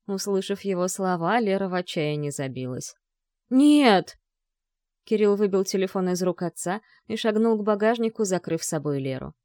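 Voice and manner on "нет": a loud, high, desperate no; desperate cry. A narrator's reading. Lera, gagged in the trunk, cries out in despair. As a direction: she struggles and cries out in terror.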